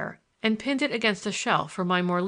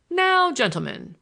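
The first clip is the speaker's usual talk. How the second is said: slow, raised opening call; formal opening address; 6 semitones higher, 5 dB louder than usual. A narrator's reading. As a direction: draw out the first word to gather the room. Grandfather formally opens his explanation.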